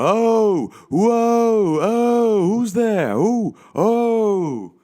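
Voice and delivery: high, loud, panicked yelps; a man caught off guard, squealing in fright; startled panic.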